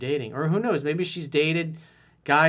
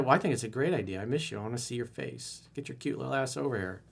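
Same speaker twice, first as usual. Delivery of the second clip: confident come-on; 3 dB quieter, faster than usual. Shown as a demonstration. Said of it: "That's how you respond".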